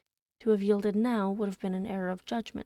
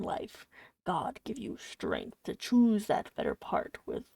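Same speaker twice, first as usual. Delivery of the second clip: cartoonish villain voice; 3 semitones lower than usual. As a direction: preach it like a cold-hearted villain. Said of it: "I have to give him a cartoonish villain voice".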